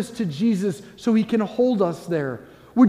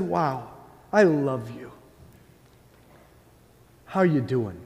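tender Jesus; 7 semitones lower, 4 dB quieter, slower than usual. Pretend. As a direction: lower and softer, full of love. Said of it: "What if Jesus looked back at you and said".

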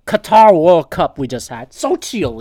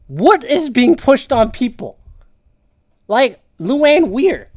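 slow, higher disbelieving question; slow incredulity; 6 semitones higher, 3 dB louder, slower than usual. Real, not acted. Asking commenters what's pushed, slow incredulity. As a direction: drag out each word in disbelief. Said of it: "slow incredulous question".

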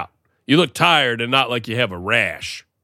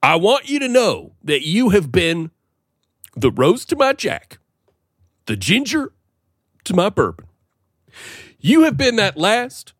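heartfelt tribute; 7 semitones higher than usual. Acted. Hammed-up heartfelt tribute to partner.

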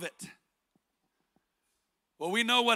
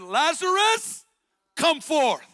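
a much higher, loud, slow call to the tomb; loud cry; 7 semitones higher, 5 dB louder, slower than usual. Acted. Jesus calling Lazarus from the tomb, loud ringing cry. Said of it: "he cried with a loud voice".

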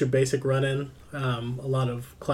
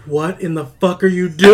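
loud, raised-pitch mock outburst; retold scream; 5 semitones higher, 12 dB louder than usual. Viewer mentally screaming at a character on screen, mock scream. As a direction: yell it in retold disbelief. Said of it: "I immediately mentally screamed out loud".

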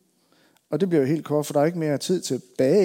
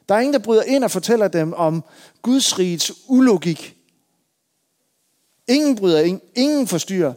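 raised, ringing sermon voice, hammering the repetitions; rousing pulpit cadence, higher and louder; full-force preaching; 4 semitones higher, 5 dB louder than usual. Acted. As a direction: preach it to the whole congregation.

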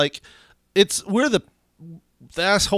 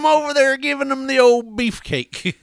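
teasing accusation; 10 semitones higher, 4 dB louder than usual. Acted.

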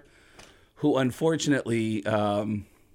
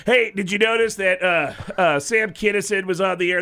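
Tom Arnold angry; 6 semitones higher, 5 dB louder than usual. Retold or imitated. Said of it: "Tom will tweet back at people and go".

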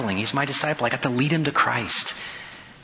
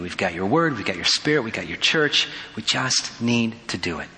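earnest spoken prayer, settling lower toward the amen; 3 semitones lower than usual. Real, not acted. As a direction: lead the congregation in prayer, addressing God directly. Leads closing prayer.

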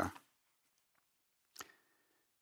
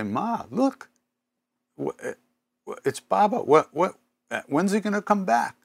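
much higher, hurried alarmed plea; mock panic; 11 semitones higher, 3 dB louder than usual. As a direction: retell your panic with a raised, fretful voice. Panicked call to Ma, retold.

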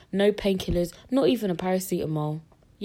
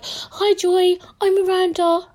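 chirpy midwife; 12 semitones higher, 5 dB louder, slower than usual. Retold or imitated. Midwife voiced in the story.

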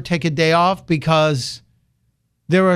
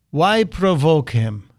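bad Putin voice; slower than usual. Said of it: "again in my bad Putin voice".

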